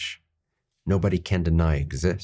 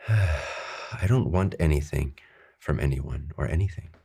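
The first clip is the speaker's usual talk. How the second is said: calm meditative affirmation, easing lower; sincere affirmation; 3 semitones lower than usual. Shown as a demonstration. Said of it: "Take another deep breath and say it".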